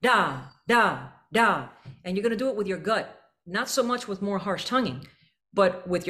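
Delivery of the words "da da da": each da hit, bouncing off and arcing down; punchy da syllables; accented da. Shown as a demonstration. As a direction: sing da like a ball off a wall. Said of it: "make it sound like da".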